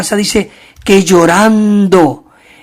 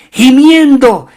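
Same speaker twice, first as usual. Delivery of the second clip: groaning cry; 7 semitones higher, 7 dB louder, slower than usual. Pretend. Tree crying out, groaning.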